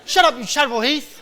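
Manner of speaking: put-on high, loud kid taunt; loud high playground taunt; child's playful insult. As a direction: taunt like a cheeky little boy. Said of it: "So he'd say".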